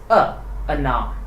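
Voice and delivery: "ana" opening on a short a, stress on the last vowel; unstressed O as A. Shown as a demonstration. Teacher explaining unstressed O to beginners, reduced-vowel demonstration. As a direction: say "ana" with a weak first a and stressed ending. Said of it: "pronounced as".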